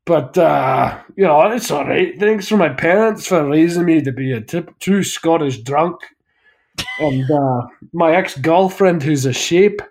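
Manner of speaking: lightly mocked gruff Scottish thanks, slow in places; Scottish acceptance speech. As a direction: grumble through the thanks like a Scotsman. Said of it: "a Scotsman gets up on stage ... he just goes".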